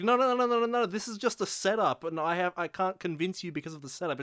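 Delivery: high, loud frantic denial; protesting character. Retold or imitated. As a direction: insist it's only a setup.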